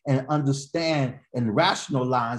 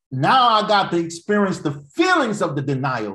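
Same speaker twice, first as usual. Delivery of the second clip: raised, louder preacher's delivery; preaching; 5 semitones higher, 6 dB louder than usual. Real, not acted. Preacher telling congregation about feelings of denial, preaching.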